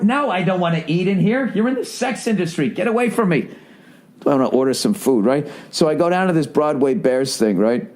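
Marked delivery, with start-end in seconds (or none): 0.0-3.5 prissy mock outrage. Mock prissy guy at strip club.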